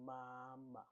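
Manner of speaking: MAMA with a long, level first MA. Shown as a demonstration. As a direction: Mandarin first tone on MAMA, second syllable short. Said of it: "This is the first tone".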